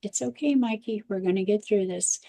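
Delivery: steady and soothing, mildly imitated; calm reassurance. Dad soothing his screaming toddler in the store, calm and soft. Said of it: "took a heavy breath and he said".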